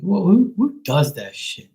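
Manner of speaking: indignant outburst at the careless shop; outraged. Real, not acted. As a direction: cry out who in disbelief.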